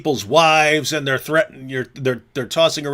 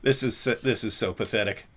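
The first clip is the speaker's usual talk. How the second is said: suppressed laughter; 5 semitones lower, 3 dB quieter than usual. Real, not acted. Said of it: "I'm trying not to laugh".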